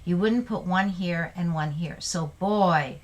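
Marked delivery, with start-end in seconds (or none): 2.4-3.0 put-on emphatic "Boy", a little louder; emotional exclamation. Shown as a demonstration. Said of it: "showing emotion".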